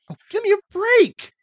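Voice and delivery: high, loud laughing scoff. Acted. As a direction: laugh it off loudly. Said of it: "you laugh as you reach".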